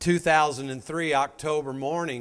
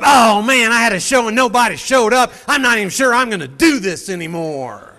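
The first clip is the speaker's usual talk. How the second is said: mock whining complaint; 4 semitones higher, 10 dB louder than usual. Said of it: "Some of you had a show".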